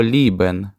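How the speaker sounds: лібен said the German way; German word demo. Shown as a demonstration. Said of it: "читаються ось так". (лібен німецькою вимовою)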